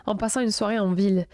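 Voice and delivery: even, projected reading voice; written-text narration, a little lifted; horoscope read aloud. A narrator's reading. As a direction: read it out clearly in measured phrases.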